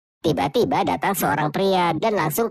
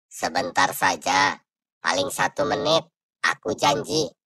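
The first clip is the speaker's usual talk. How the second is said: whispering ghost. Acted. Ghost begging his wife to open, slow whispered plea. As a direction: plead through the door like a ghost.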